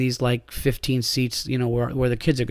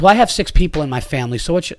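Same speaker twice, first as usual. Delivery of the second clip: fast, a bit louder mock entitled mom; snotty attitude; 3 semitones higher, 4 dB louder, faster than usual. Comic retells the mother's snippy reply, snotty. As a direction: toss it off with a sneer. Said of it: "out loud with an attitude voice".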